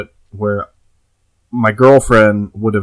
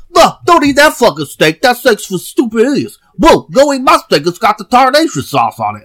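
put-on yelling like a wild Western old-timer; old prospector; 11 semitones higher than usual. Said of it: "He was like".

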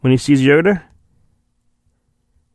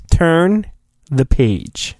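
storybook cue; much slower than usual. Pretend. Repeats storybook page-turn cue.

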